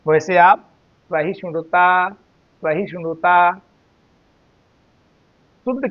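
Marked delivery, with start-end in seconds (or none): 1.1-3.5 सहिष्णुता slowly in one flow, long final ता; joined pronunciation. Shown as a demonstration. Teacher likening it to the earlier word, सहिष्णुता said joined. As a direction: draw सहिष्णुता out without a break. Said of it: "जैसे आप बोले थे आमदनी".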